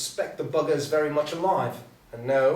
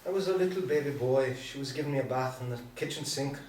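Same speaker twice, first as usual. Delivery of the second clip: put-on upbeat Irish accent. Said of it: "Harry covers, turning upbeat".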